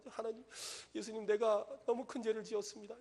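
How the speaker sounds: high, imploring confession; a touch of tearful penitence, retold; retold repentant prayer. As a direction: plead with God, lightly acting out remorse. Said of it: "이러면서 막 회개하고".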